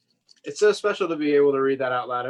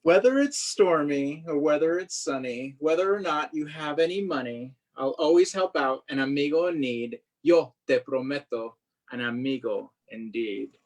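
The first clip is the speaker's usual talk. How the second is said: kind vendor. Acted. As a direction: reassure the boy like a big friend. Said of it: "make him talk like that".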